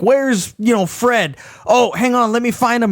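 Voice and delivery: lightly voiced mock casual Trevor. Trevor asking the bikers, cheeky high voice. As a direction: act innocent, high and cheeky. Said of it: "he's like".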